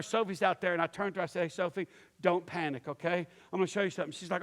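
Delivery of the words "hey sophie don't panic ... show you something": low, composed reassurance; level-headed calm. Retold or imitated. Bleeding dad to his young daughter, level-headed calm. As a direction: keep it low and unhurried, nothing to worry about. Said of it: "I'm very level-headed".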